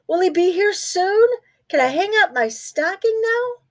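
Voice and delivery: high, excited questions; eager little mouse. Acted. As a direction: ask it bouncing with excitement. Excited about Santa.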